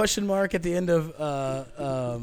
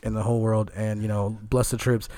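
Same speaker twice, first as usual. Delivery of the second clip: Obama impression; 7 semitones lower than usual. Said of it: "Obama's in his ear going".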